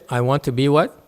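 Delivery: loud, high disbelief; incredulous. Real, not acted. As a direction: ask in disbelief. Teacher echoes incredulously.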